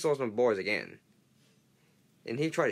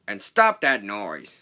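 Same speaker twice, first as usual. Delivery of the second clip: loud, slow command; bellowed; 6 dB louder, slower than usual. Acted. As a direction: spell out the order heavily. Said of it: "he bellowed".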